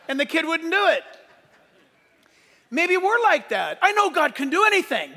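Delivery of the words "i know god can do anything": mock confident claim. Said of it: "we say".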